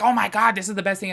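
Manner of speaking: high, loud gushing impression of the influencer; mocking gushing influencer. Vlogger mocking a creator she calls fake, high gushing voice. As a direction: ham up her over-the-top excitement. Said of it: "the way she's like".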